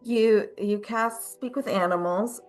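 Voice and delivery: ordinary talk, nothing marked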